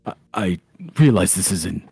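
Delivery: halting, careful, polite request; mild apologetic hesitancy; hesitant Erwin. Acted. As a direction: pick your words awkwardly, with long pauses.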